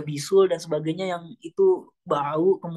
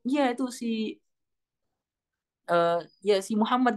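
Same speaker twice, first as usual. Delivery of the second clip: mocking wife; 4 semitones higher, slower than usual. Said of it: "Istrinya pun berkata".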